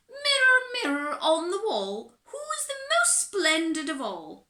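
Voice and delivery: high, loud, grandly sung-out summons; grand call to mirror. Acted. Little Miss Splendid loudly summons her magic mirror. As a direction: call the mirror like a vain queen. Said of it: "she asked".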